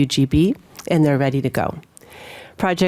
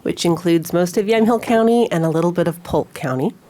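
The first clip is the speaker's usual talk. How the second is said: talking around a cough drop; sucking a throat lozenge. Real, not acted. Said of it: "the cough drop, but it's either I suck on this".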